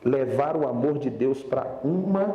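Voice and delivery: drawn-out, weighty preaching; slow preaching. Real, not acted. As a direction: lay each phrase down slowly. Slow, emphatic sermon point.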